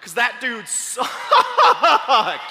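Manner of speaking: SUCKED stretched out very long; long, drawn-out comic SUCKED; stress on sucked. Real, not acted. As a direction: drag out sucked for comic effect. Mocking friend's early calls, word stretched.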